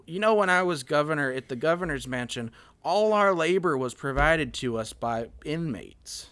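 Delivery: put-on vocal fry Southern accent. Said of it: "It's like a vocal fry Southern accent".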